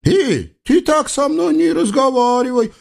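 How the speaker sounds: high, pouty comic sultan; offended sultan. Acted. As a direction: play wounded pride. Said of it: "обиделся султан". (высокий обиженный голос султана)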